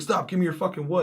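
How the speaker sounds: high, loud imitated order; mock robber command. Armed bandit to a player charging him, yelling. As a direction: yell it like a rattled bandit.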